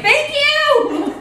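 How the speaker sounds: high, bright mock gratitude; delighted thanks. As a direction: gush a thank you at the insult. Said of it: "I was like".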